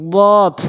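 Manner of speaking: বদ heavy and full; full heavy bod. Shown as a demonstration. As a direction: fill the mouth on বদ. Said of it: "এভাবে উচ্চারণ করবো, পুর করে।".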